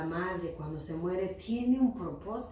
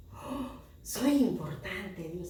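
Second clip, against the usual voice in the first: happy frog; slower than usual. Acted. Little frog learns from God that it matters, happily amazed. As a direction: act pleasantly amazed, stretching the words. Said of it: "se quedó contenta y dijo".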